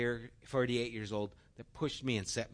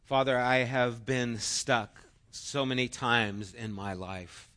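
prayer; 4 dB louder than usual. Acted. Leads closing prayer.

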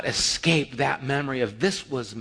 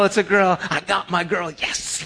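excited calling out; 4 semitones higher than usual. Retold or imitated. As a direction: call out the news, overjoyed. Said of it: "I was the one screaming out".

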